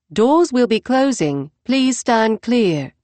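train announcement. Acted. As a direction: read it like a station PA.

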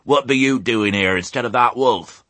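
a hint of croaky rustic character; hoarse old ewe. A narrator's reading. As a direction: question him as a country old ewe. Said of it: "the sound of Ma's hoarse tones".

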